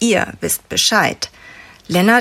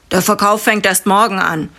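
put-on barked, louder than the boys; gruff man, louder; 4 dB louder than usual. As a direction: knurrig und laut angeblafft. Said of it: "fährt sie einer der Männer an". (mürrischer Mann, lauter)

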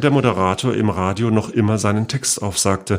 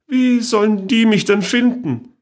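put-on much higher, louder, gleeful old aunt; amused aunt; 12 semitones higher, 4 dB louder than usual. A narrator's reading. Great-aunt dismissing the danger to her niece, gleeful and high. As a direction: toss it off with mischief.

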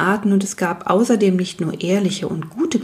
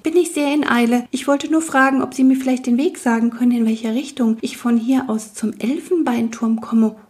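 hurried will-o'-wisp; 5 semitones higher than usual. Acted. Wisp asks the way.

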